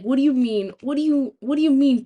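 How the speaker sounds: pissed-off protest. Acted. Pupil objecting to teacher's grammar correction, indignant. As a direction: fire back in mock outrage, restarting each time. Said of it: "I would get so pissed".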